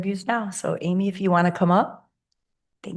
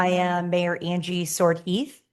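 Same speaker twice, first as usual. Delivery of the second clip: hoarse, raspy and slow; raspy voice after a long weekend. Real, not acted. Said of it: "Excuse my raspy voice".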